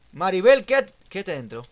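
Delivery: loud order, highest on the name; calling out. Real, not acted. Player ordering Maribel to stay inside, urgent shout. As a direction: shout to keep someone inside.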